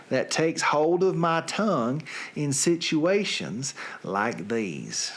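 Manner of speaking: a lightly put-on Southern accent. Reading song lyrics to his listeners, in a light Southern accent. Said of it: "read for you tonight with a Southern accent".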